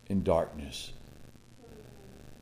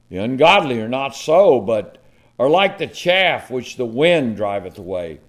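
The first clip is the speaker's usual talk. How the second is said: scripture reading; 3 dB louder than usual. Acted. Preacher reading Psalm one to congregation, solemn. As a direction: read the Psalm like a pulpit proclamation.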